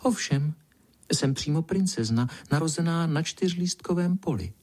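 flattered lie. Acted. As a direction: boast to the spider, pleased with herself. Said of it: "polichoceně zalhala pinkalinka".

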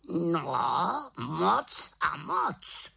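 high, drawn-out raven call; exclaiming raven. A narrator's reading. Raven insisting it matters, exclaiming. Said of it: "zvolal Havran".

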